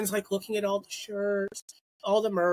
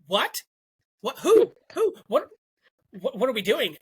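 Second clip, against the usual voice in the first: sudden high shout of disbelief, then trailing questions; stunned excited shouting; 5 semitones higher, 4 dB louder than usual. Retold or imitated. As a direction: reenact a friend freaking out at big news. Friend shocked on phone, retold.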